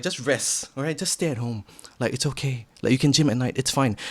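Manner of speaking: soft lazy inner voice. Retold or imitated. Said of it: "Hamka number one is like".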